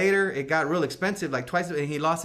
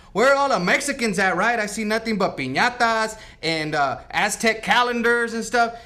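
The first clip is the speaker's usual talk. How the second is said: mock indignant ghost; 4 semitones higher, 5 dB louder than usual. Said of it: "He's pissed for a lot of reasons".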